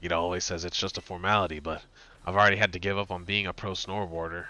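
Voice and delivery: lightly acted, soft character voice; a hint of a downcast gym leader; subdued gym leader. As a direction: read the leader's worries quietly. Reads gym leader's dialogue.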